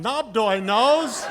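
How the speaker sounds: high, drawn-out mock yell; mock scream. Student yelling the hall's running joke from the back, drawn-out mock scream. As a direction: call it out long and high, falling away. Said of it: "somebody in the back would scream out".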